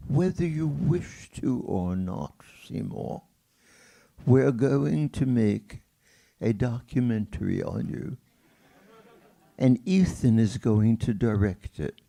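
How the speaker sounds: lightly imitated English accent, slowing on "we're going to make"; a mild English accent for the friend's announcement; Andrew Harvey's English accent. Friend announcing the documentary to Seymour in a light English accent. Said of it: "in his English accent".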